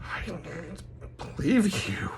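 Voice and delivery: soft, high, slow laughing protest; laughing disbelief. Retold or imitated. Speaker telling God he doubts the order, laughing disbelief. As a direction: squeak it out softly through laughter.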